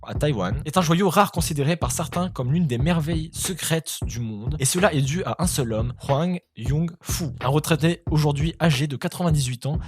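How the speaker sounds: steady news-style reading of a quirky story; article read-out. Acted. YouTuber reading an odd news article to viewers, news-read voice. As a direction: reads the piece like a news segment.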